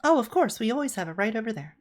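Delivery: high, fast eager reply; chirpy helpful clerk; eager receptionist. Acted.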